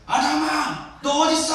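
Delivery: high, loud cry as God; forceful shout. Shown as a demonstration. Preacher as God calling out to sinful Adam, strong shout. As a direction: shout it hard, demanding an answer. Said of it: "세게 말했을 것 같아요".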